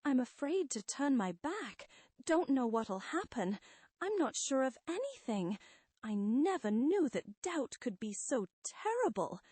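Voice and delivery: high-pitched, desperate begging; frightened pleading. Acted. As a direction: plead as if crippled by doubt. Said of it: "reduced to quivering, pleading, pitiful creatures of doubt".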